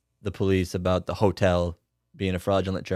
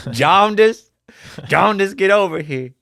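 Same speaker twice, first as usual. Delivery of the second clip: calling out; 9 semitones higher, 6 dB louder than usual. Acted. Calling out a name.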